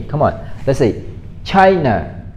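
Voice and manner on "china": "China" said slowly, first syllable stressed and falling away; model pronunciation. Shown as a demonstration. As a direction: demonstrate "China" with the stress on "Chai". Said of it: "learn how to say it with me".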